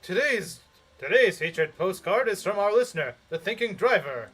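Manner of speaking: upbeat radio DJ read; lightly voiced radio host; announcer voice. Shown as a demonstration. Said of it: "announcer voice".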